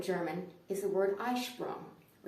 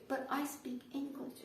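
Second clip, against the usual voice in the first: softer, higher, slower objection; meek protest; 6 semitones higher, 7 dB quieter, slower than usual. Retold or imitated. Customer answers the screaming cashier, softly protesting. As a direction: object in a small high voice. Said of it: "And I say".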